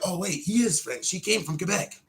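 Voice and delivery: put-on, high mocking voice; mocking imitation. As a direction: imitate a writer suddenly catching on. Mimics writers' sudden realization.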